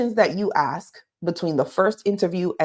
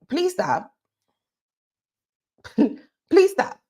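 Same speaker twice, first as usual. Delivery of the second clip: laughing plea; 10 semitones higher than usual. Real, not acted. Joking plea to candidates.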